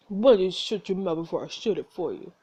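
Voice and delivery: put-on a lightly done thick Russian accent; a hint of a menacing Russian brute. Russian bartender threatens Tony in a light Russian accent. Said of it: "he's gonna have a butcher accent".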